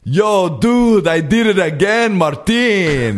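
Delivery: high, loud put-on Arab accent; thick Arab accent. Boyfriend bragging to Martin, loud mock Arab accent. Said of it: "with a thick Arab accent".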